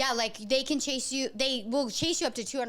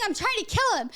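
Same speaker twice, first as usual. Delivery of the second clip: mock scream; 8 semitones higher than usual. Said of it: "he starts screaming".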